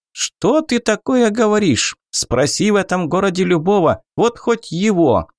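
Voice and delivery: high, indignant goblin. Acted. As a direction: protest like an offended goblin, pitched high.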